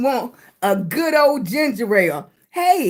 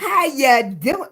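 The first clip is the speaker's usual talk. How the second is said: put-on country accent; slower than usual. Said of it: "Look, I sound country".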